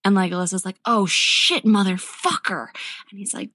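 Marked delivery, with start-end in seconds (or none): 0.8-2.7 loud mock alarm, punching the curse; blurted retold expletive; alarmed swearing. Acted panicked reaction to a text.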